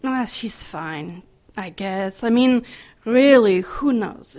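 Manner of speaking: tags 2-4 not given as said plus heard is under 7. Acted. Callous nun dismissing patient.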